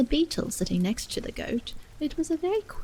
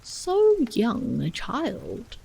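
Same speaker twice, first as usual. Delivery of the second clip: put-on an old gentleman, slow and clucking; slow pitying gentleman; 2 semitones higher, 4 dB louder, much slower than usual. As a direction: draw it out, slow and a bit louder. Gentleman in paper remarks.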